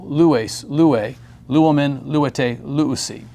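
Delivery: each form from "lues" to "luusi" hit on its opening lu; first-syllable stress. Shown as a demonstration. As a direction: recite "lues, lue, luomen, luete, luusi" with weight on lu. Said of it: "but really the accent is".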